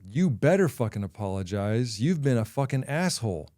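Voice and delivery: mildly acted angry telling-off; a touch of exasperation, building slightly; retold scolding. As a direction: imitate a fed-up wife laying into him. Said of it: "she let me have it".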